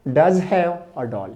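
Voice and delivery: each word drawn out for students to write; slow dictation. Shown as a demonstration. Teacher dictating the sentence to the class, very slow. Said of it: "मैंने क्या कहा".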